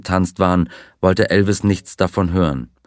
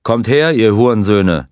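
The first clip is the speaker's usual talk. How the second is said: loud furious shout at attackers; 2 semitones higher, 4 dB louder than usual. Acted. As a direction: bark it out, fists up. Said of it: "schrie er".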